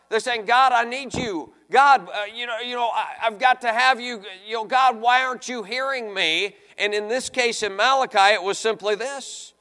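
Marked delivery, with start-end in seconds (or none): 0.5-6.6 mock plea to God, raised in pitch; imitated crying out. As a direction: plead upward as if crying out, half acted. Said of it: "They're crying out".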